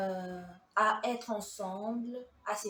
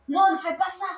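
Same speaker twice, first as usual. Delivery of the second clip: loud pleading no; 8 semitones higher, 10 dB louder, faster than usual. Retold or imitated. Shouted prayer to the Lord.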